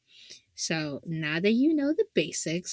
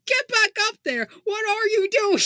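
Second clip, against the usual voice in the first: high, louder mock scolding through laughter; motherly rant; 13 semitones higher, 6 dB louder than usual. Mother scolding her dead son to go back up, high laughing rant. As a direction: shoo him back like a furious mom. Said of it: "is the motherly rant immaculate".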